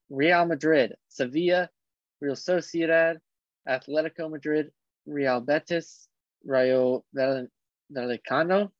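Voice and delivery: club names lightly Spanish-accented. Real, not acted. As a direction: read the list with a touch of Spanish accent. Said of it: "Stop talking in a Spanish accent".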